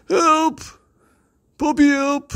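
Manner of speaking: high loud cry for help; panicked bully yelling. Acted. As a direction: shriek for your brother. Bully stuck in tree.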